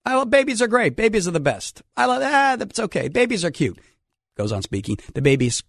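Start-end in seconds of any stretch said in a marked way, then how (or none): 0.1-3.8 imitating Trump. Host imitating Trump at a rally, gushing about babies. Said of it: "and he says".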